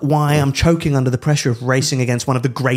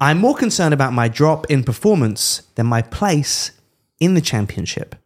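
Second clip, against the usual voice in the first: put-on Spanish accent. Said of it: "I was just doing a Spanish accent".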